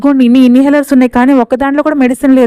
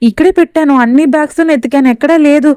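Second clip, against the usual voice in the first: higher, put-on indignant complaint; mock outrage; 3 semitones higher than usual. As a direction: fake the fuss to frame her. Roommate fakes missing earpods. (నటించిన కోపంతో, ఎత్తైన స్వరం)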